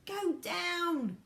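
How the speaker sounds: high, loud acted shout; yell. A narrator's reading. Grandpa George yells over the wind, high and loud. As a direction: holler an order over the din. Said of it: "yelled Grandpa George".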